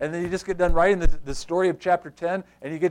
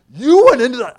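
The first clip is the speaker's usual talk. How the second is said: put-on high, loud accusation in a Jewish accent; hammed-up outraged Jewish-accented critic; mock Jewish accent; 10 semitones higher, 15 dB louder than usual. Believers scolding Peter, hammed-up Jewish-accented outrage. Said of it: "had a little Jewish accent going on".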